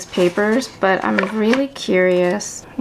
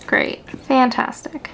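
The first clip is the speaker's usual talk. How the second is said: sarcastic; 4 semitones higher, slower than usual. Acted.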